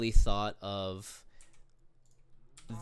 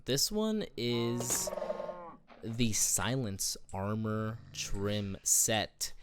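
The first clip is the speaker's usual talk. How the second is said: dramatic reveal; much slower than usual. Acted. Dramatic unveiling of top pick.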